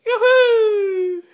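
loud slow call across the yard; calling from far away. Real, not acted. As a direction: call out loudly to the cat. Calling cat from across garden.

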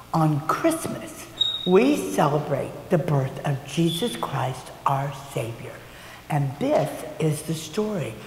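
slow, gentle storybook reading; reading to children. A narrator's reading. Teacher reads the Christmas book aloud to children, slow and gentle. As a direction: read the opening slowly to little ones.

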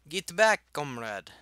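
high, loud mock Russian shout; badly faked Russian comrade; bad Russian accent. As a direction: bark an order in a hammed-up Russian accent. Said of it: "I can't do accents".

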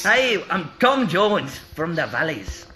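slow, drawn-out Welsh accent; a singer impression. Shown as a demonstration. Introducing himself as a famous singer, slow mock Welsh. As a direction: put on slow, lilting Welsh.

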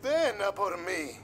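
unhinged villain. Acted. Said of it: "Es el malo maloso".

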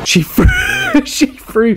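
high-pitched, breaking into laughter mid-phrase; laughing. Real, not acted. Reacting as she threw something on stream, laughing. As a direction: try to say it through a laugh. Cracks up at the clip.

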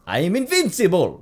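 high, loud triumphant movie-villain cry; hammed-up triumphant shout; Boris. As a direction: crow it like a cartoonish film character. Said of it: "That's the one with Boris in it".

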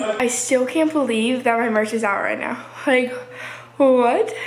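breathless after running upstairs; panting between words; out of breath. Real, not acted. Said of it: "sorry I'm out of breath".

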